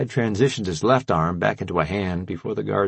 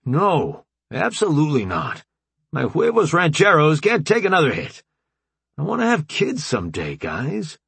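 Jones protesting; 7 semitones higher than usual. A narrator's reading. Jones refusing his friends, higher and pleading. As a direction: push back in a higher, pleading voice. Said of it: "shaking his head furiously".

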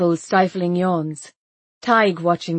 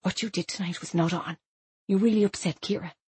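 hushed scolding; 5 dB quieter than usual. Acted. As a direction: scold her quietly in the taxi. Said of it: "she whispered to me".

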